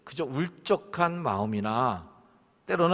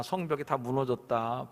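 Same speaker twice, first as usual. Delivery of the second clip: usual speaking voice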